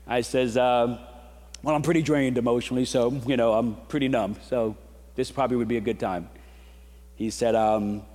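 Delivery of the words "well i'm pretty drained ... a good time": retold weary answer, slightly low; mildly numb, emotionally spent reply; drained. Drained dog owner answering the vet, mildly weary. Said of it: "'cause I'm drained at this point".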